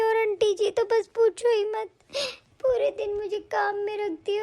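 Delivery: acted tearful pleading; crying. Sister begs her brother to take her away, tearful. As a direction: plead through tears. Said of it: "तुम रो क्यों रही हो?".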